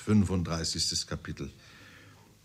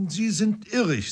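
doubtful frown; 11 semitones higher than usual. A narrator's reading. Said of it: "mit bedenklicher Miene".

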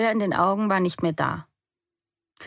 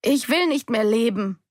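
loud, higher roar, WILL hit hard; roared into the rain; 5 semitones higher, 3 dB louder than usual. A narrator's reading. Daughter running through the rain, roaring out her grief. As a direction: bellow "Ich will nicht mehr leben" with a hard falling end. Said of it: "brüllte ich in den Regen".

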